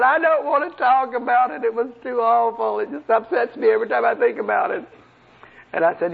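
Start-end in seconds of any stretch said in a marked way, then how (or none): 0.0-4.8 a raised, pitiful demon voice; mock whiny demon. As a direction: play the beaten demon confessing. Preacher voices a frightened demon.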